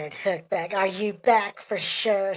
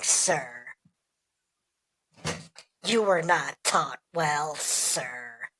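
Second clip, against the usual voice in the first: disgruntled customer; 4 dB quieter, slower than usual. Acted. Customer scolding a badly trained worker, disgruntled. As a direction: lecture with slow, pointed pauses. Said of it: "just like a disgruntled customer".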